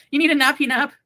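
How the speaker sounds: put-on high, loud cooing baby talk. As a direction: coo at the pet like a baby.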